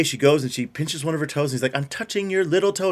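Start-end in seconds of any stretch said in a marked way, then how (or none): 1.8-2.9 lightly voiced high child; a hint of a small girl, pitched up; imitating little girl. Retells the little girl's line.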